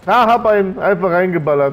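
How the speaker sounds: fired-up gamer shout; shouting orders over battle. Real, not acted. Excited outburst about enemy player.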